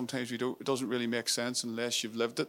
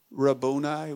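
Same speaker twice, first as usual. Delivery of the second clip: cried out; 4 dB louder, slower than usual. Retold or imitated. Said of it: "she cried out and said".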